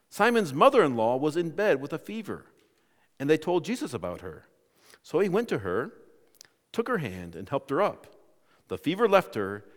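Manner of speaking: measured, emphatic Bible reading; scripture reading. Acted. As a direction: read the passage out to a congregation. Reads scripture aloud to congregation.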